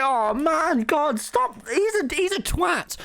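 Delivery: exasperated aside. Retold or imitated. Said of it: "I was like".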